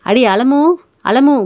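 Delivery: put-on calling a girl across the street, rising; wife calling the neighbour girl across the street, loud call. A narrator's reading. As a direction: call out her name loudly. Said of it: "உரத்த குரலிலே".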